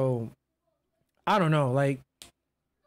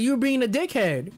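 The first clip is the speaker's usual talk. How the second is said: higher mock accusing voice; retold accusation; 4 semitones higher than usual. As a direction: imitate the healer throwing blame. Retold healer's accusation in argument.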